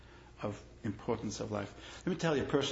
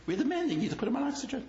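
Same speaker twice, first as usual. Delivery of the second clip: firm demand; 13 semitones higher, faster than usual. Retold or imitated. Rabbi demands oxygen from doctor.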